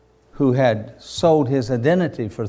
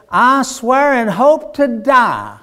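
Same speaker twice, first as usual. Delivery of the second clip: frantic oath; 11 semitones higher, 6 dB louder, slower than usual. Acted. Peter swears an oath.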